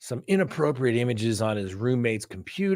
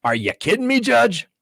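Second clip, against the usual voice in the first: incredulous protest; 4 semitones higher than usual. Retold or imitated. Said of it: "And I'm like".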